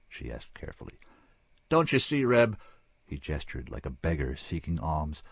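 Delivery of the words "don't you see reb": higher, urgent plea; pleading wild man. Acted. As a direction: beg her to understand.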